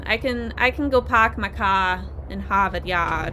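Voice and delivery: a light put-on Boston accent, dropping the r's; half-hearted Boston accent, barely forced; mild Boston accent demo. Shown as a demonstration. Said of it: "Like, I can force it".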